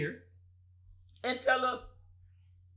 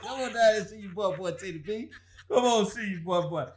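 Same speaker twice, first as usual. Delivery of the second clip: laughing game show call. Pretend. Calling the fan, laughing.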